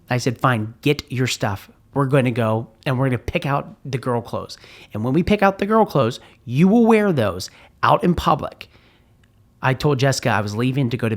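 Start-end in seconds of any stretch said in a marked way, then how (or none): 0.4-8.7 lost temper. Retold or imitated. Father losing his temper with his daughter, angry raised voice. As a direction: snap and lay down the law. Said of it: "I finally had lost it".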